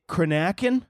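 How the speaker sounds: "Cranachan" with stress on a flat-A middle, kruh-NACK-un; questioning stab at "Cranachan" as kruh-NACK-un; unsure pronunciation. Real, not acted. Host reading dessert list, unsure "Cranachan" as kruh-NACK-un. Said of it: "I don't even know how to say".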